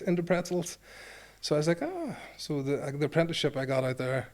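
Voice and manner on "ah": high-pitched "ah"; retold realization. Returning player discovers he can fold opponents, high retold "ah". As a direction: let out a high, acted "ah". Retold reaction to his success.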